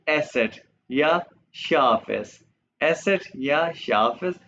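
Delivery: एसेट या शार्प एस spelled slowly; slow letter name. Shown as a demonstration. Teacher slowly names eszett for students. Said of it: "और ये क्या है".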